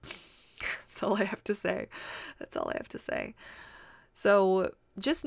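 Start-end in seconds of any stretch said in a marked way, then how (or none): 0.0-1.9 breathy whispered aside; whispering. Real, not acted. 2.4-3.3 very low, mock-serious; deep voice. Repeated aside, deep.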